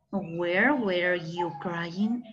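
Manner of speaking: very slow, carefully spaced English question; slow classroom English demo; slow model sentence. Shown as a demonstration. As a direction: lay out each word for the class. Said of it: "qué podríamos decir".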